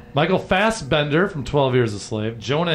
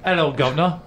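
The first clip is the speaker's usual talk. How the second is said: mock British accent; 2 semitones higher than usual. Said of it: "I was gonna throw that one in there".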